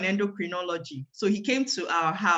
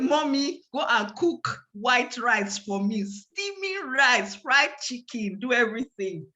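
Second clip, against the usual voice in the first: joyful demand; 4 semitones higher than usual. Retold or imitated. Girl overjoyed ordering her favourite food.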